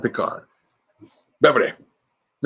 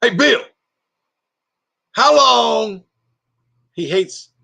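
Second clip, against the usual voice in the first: high, loud, bro-ish scolding voice; sergeant Larry; 10 semitones higher, 5 dB louder, slower than usual. Retold or imitated. Sergeant scolding a colleague, high and loud. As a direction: pitch up and lecture like a buddy cop. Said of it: "I'm doing my sergeant".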